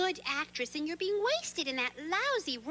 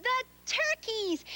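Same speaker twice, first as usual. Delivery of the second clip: dramatic reveal; 7 semitones higher, slower than usual. Real, not acted.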